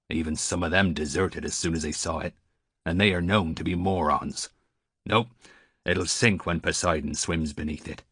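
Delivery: lightly voiced old seaman, a touch scornful; a hint of amused scorn; scornful old sailor. Old sailor mocking the giant galley, mildly scornful.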